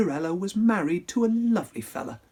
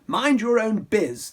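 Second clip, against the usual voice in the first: rude reply; 5 semitones higher, 4 dB louder than usual. Acted. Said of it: "the prince replied".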